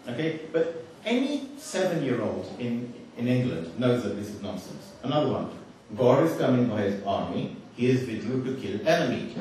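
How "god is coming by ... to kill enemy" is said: lightly put-on South Asian accent; South Asian English accent. Speaker reading faulty revelation to audience, South Asian accent. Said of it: "doesn't sound too bad with the accent".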